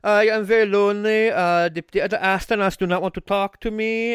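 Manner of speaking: lightly hammed-up German accent; mock German-accented complaint of loneliness. Lonely astronaut grumbling about his crewmates, in a German accent. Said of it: "I'm doing a German accent".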